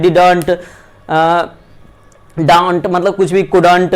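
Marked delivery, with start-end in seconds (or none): 0.0-0.5 didn't as two full syllables, "did-aant"; drawn-out "did-AANT" for didn't; wrong pronunciation. Shown as a demonstration. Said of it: "जो हम लोग pronunciation करते हैं ना". 2.4-2.9 don't said with an open vowel, "daant"; wrong pronunciation. Shown as a demonstration. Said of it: "ये सब करते हैं तो ये गलत रहता है". 3.5-3.9 couldn't split in two, "kud-ant"; wrong pronunciation. Shown as a demonstration. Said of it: "ये सब करते हैं तो ये गलत रहता है".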